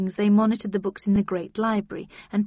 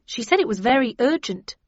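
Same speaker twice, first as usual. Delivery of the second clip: insistent stress on "very urgent", louder; stressed urgency; 3 semitones higher, 5 dB louder than usual. A narrator's reading. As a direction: press the words "very urgent" home. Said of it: "stressed Jones".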